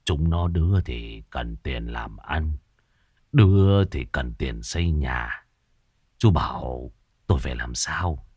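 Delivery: put-on slow, low, tearful old man; low weepy drawl; snivelling. A narrator's reading. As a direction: sob out the troubles slowly and helplessly. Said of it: "Lão già sụt sùi".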